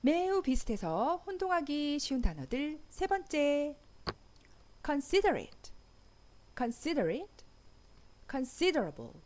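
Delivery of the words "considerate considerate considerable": considerate and considerable stressed on SI, con-SI-der; stress second syllable. Shown as a demonstration. Teacher showing con-SI-der stress on both words. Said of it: "이음절의 강세가 있어요".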